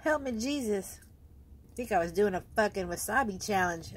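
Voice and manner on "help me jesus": high strained plea; pained plea. Real, not acted. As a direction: beg through the burn. Wasabi burn.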